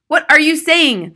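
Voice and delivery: high, slow, loud dismay; husband crying out. A narrator's reading. Husband hears about disinfectant, crying out. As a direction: cry out, aghast. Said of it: "the husband cried".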